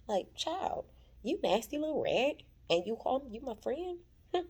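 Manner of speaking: high, scornful scolding; mock-betrayed scorn, high. Real, not acted. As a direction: talk down to her. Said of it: "scolding Belinda".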